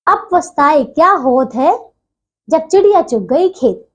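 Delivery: proverb read out slowly, word by word; slow recitation. Shown as a demonstration. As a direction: say अब पछताए क्या होत है slowly and evenly for the pupils. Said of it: "दोबारा बोल रही हूँ इसको".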